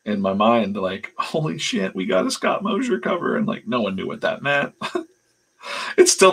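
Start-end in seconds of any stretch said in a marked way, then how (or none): 1.2-3.4 high-pitched inner fanboy squeal, held in; geeked-out excitement. Retold or imitated. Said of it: "super geeked out".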